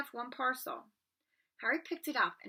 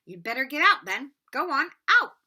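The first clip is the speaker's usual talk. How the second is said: louder, sharp order to get out; librarian shooing him out; 5 semitones higher, 12 dB louder than usual. Acted. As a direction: chase the boy out of the library, loud and high. Librarian chases Harry out.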